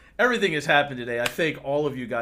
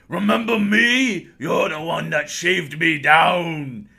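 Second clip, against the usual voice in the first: menacing dwarf; 2 semitones higher, 6 dB louder, slower than usual. Acted. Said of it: "he's like".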